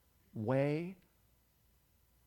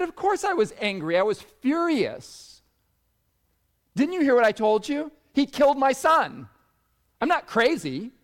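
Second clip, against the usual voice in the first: raised, emphatic retelling of her fury; a touch of indignant heat, louder; retold anger; 11 semitones higher, 10 dB louder than usual. A mother insisting she was furious, with retold anger.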